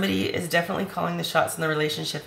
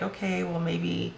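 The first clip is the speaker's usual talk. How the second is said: submissive; 2 semitones higher, slower than usual. Acted. Reader mimics someone too submissive to argue, meek. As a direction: play someone meekly giving in. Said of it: "good and submissive or just like".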